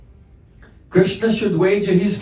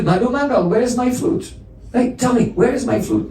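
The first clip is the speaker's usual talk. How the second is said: anxious questioning; 6 semitones higher than usual. Acted. Krishna anxiously asks friend.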